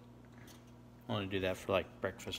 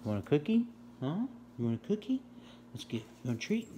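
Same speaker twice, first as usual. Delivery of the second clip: squeaky praising a dog; 5 semitones higher, 4 dB louder, faster than usual. Real, not acted. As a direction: coax the dog with a treat. Offers treat to dog.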